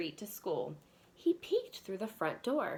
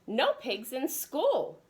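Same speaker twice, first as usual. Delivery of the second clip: stern principal; 5 semitones higher, 4 dB louder, slower than usual. Acted.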